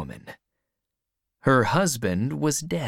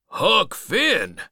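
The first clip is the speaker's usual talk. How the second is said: high, raised questioning voice; old man calling back; 9 semitones higher, 4 dB louder than usual. A narrator's reading. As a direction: call the name back in question.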